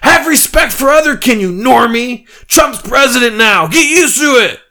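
very high, loud ranting shouts; screaming mob. Acted. Furries screaming at the old man, very high and loud. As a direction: shriek it like an angry mob. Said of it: "screaming things like".

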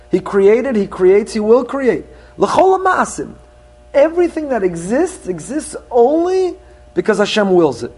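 full-force preaching. Acted. Rabbi proclaiming God's oneness to the congregation, fervent preaching. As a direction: build each phrase like a pulpit crescendo.

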